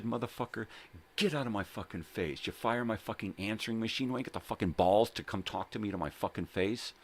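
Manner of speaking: retold angry confrontation. Painter confronting the boss who fired him, retold angry rant.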